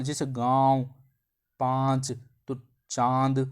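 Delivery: गाँव, पाँच, चांद said through the nose; nasal vowel demo. Shown as a demonstration. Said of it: "आपकी नाक से आवाज़ आ रही होगी".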